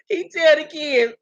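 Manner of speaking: retry the slurred imitation while fighting giggles; Jewels. Host retrying the kids line, mock slurred voice. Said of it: "I gotta do my Jewels voice".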